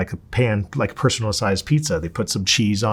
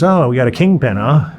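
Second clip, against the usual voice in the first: loud, sneering guard voice, pitched up; mocking officer; 3 semitones higher, 7 dB louder than usual. Officer taunting the new inmate, loud and sneering. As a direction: jeer it like a smug prison official. Officer mocks him over charges.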